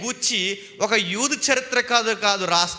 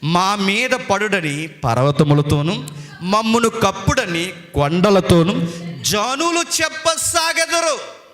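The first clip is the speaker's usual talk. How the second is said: scripture recitation; 4 dB louder, slower than usual. Retold or imitated. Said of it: "ఆయన అన్న మాట".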